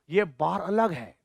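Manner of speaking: whispered, slow aside to the class; conspiratorial teacher whisper; hushed aside. Shown as a demonstration. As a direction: lean in and whisper it.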